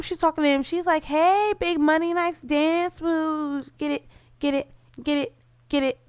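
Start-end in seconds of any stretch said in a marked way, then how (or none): 1.0-6.0 mock Barbie voice. Barbie flirting with the dancer, high bubbly mock voice. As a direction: ham up a flirty doll cheering him on. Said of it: "maybe Barbie didn't say it like that".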